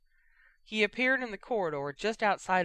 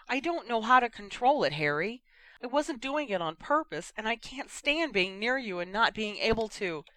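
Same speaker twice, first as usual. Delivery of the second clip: distressed plea; 6 semitones higher than usual. Acted. Ginny distressed.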